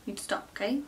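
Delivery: quiet whispered pleading with mum; hushed plea. Retold or imitated. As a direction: whisper it like a gentle telling-off. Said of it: "and I'm like".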